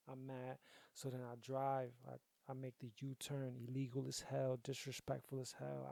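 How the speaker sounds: usual speaking voice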